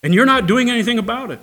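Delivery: a bold, almost indignant prophet; Habakkuk's bold complaint. Retold or imitated. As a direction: prophet challenging God. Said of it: "He's saying".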